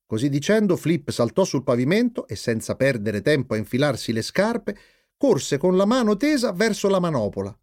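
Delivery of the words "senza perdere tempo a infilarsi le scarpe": usual speaking voice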